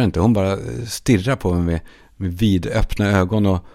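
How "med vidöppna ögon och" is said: usual speaking voice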